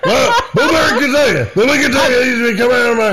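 mock angry outburst. Radio host character losing it at a caller, mock furious. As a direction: blow up at the caller in fake fury. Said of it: "give that character a name".

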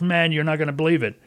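quick, bright retelling of a thrilled driver; thrilled caller. Retold or imitated. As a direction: rush it out like you can't wait to share good news. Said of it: "this guy was just thrilled to death now".

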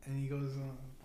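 usual speaking voice

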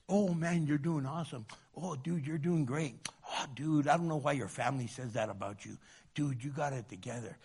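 butter them up like a false buddy; flattering enemy. Retold or imitated. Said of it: "kisses of an enemy sound like this".

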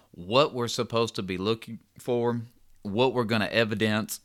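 hiccuping between words; talking through the hiccups. Real, not acted. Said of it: "excuse me, I got the hiccups".

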